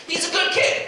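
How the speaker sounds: put-on ironic high "he's a good kid"; sarcastic. Comic praising the kid sarcastically to the crowd. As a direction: say it with a knowing smirk. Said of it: "repeats with irony".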